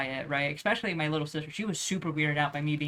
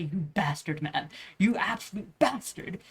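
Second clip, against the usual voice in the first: playful mock insult, drawn out at the end; joking insult; slower than usual. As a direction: stretch out the teasing name-calling. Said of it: "It's like a joke".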